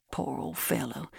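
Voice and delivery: soft, understated lament; mournful pity. A narrator's reading. Givens mourning the supposed camp pet, softly mournful. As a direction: say it softly, as if grieving. Givens feigning grief for lion.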